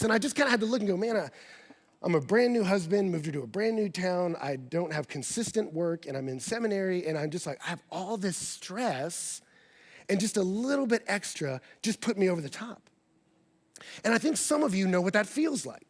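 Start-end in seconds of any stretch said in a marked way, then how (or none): 1.0-12.9 soft, low, weary self-talk; quiet reflection. Retold or imitated. Husband confessing his stress to himself, soft and low. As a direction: admit it to yourself softly.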